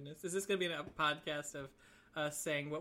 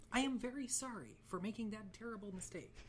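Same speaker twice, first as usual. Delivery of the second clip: news anchor apology; 3 semitones higher than usual. Pretend. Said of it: "You sound like, uh, a news anchor that just got in trouble".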